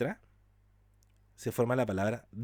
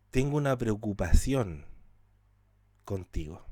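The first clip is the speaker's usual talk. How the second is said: a caring word, not an attack; gentle concern. Shown as a demonstration. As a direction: soften it into real concern.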